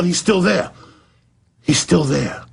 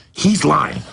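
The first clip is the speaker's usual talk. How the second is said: usual speaking voice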